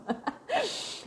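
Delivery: a quick high laugh; a brief amused laugh breaking in; short laugh. Real, not acted. Coach laughing at her own point about imposing women.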